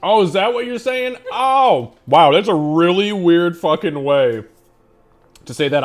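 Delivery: startled high, loud exclaim; sudden loud surprise; surprised. Real, not acted. Caught out by a chat remark.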